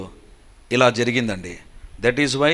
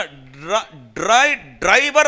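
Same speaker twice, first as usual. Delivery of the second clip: stammered, louder cry cut short; retold alarmed shout; 6 dB louder, much slower than usual. Passenger about to warn the driver before the crash, retold alarmed shout. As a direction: re-enact a panicked call that sticks on the first syllable. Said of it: "అని అరవబోతున్నా".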